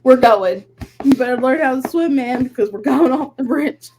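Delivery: put-on half-crying joke threat at the toddler; laughing mock threat. Mom retelling her snapped joke to her daughter, laughing. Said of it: "And I'm like".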